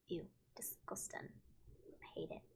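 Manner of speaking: very soft, unvoiced whisper; barely audible, grossed-out aside; whispered disgust. Real, not acted. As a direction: whisper it in revulsion. Murmured disgust at fish.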